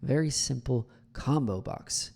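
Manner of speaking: SIMPLE and COMBO BOX slowly set apart with weight; slow, deliberate punch on SIMPLE, then COMBO BOX; emphatic stress. Shown as a demonstration. Coach shows emphasis, slowly stressing SIMPLE and COMBO BOX. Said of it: "emphasize that it's simple".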